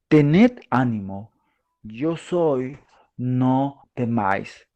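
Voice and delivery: slow, calm comfort; reassuring. Acted. Jesus calming his frightened disciples, slow and reassuring. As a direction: speak it slowly to calm them. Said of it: "Jesús les habló diciendo".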